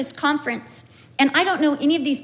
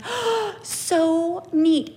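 high, gasped imitated delight; gushing delight; 4 semitones higher, much slower than usual. Speaker learning of Caroline's church, delighted. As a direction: gush it on a high, breath-caught note.

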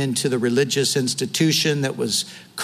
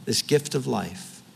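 closing prayer. Acted. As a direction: pray for the congregation, measured and sincere. Pastor leads closing prayer.

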